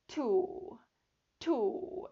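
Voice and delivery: to held long, lips rounded. Shown as a demonstration. Teacher demonstrating a long to. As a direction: stretch the u in to. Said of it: "길게 발음을 하시는 거예요".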